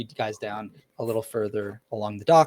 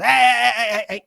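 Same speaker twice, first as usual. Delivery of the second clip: higher, louder playful hushing; dad calming kids; 11 semitones higher, 11 dB louder than usual. Acted. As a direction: settle the kids down cheerfully. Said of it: "And he goes".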